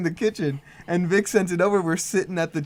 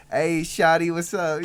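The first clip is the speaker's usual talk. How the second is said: a hint of a chipmunk voice; lightly high, sped-up helium voice; pitched-up voice; 4 semitones higher, 4 dB louder, slower than usual. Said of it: "pitched up voice".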